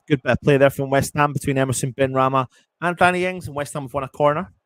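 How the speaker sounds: upbeat play-by-play; excited commentary. Real, not acted. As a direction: lift the voice for good play. Praising build-up in live commentary.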